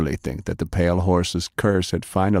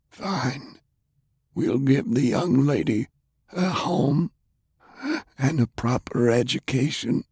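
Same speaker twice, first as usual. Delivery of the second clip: put-on lightly raised, indignant old gentleman; a pitch-raised, prim older man, gently scolding; Browning's voice; 7 semitones higher than usual. Browning conceding.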